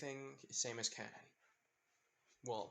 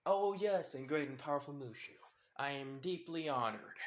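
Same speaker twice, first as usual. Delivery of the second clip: mock respect. Izuku humoring Mushu, mild mock reverence. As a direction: lay the flattery on thick, barely hiding the sarcasm. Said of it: "Trying not to sound as sarcastic".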